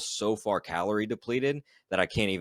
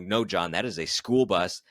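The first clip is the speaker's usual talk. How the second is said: higher, louder, baffled insisting; insistent disbelief; 3 semitones higher, 5 dB louder than usual. Retold or imitated. Telling his pacer about the hallucinated bus, loud baffled insisting. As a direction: swear you see it, half laughing.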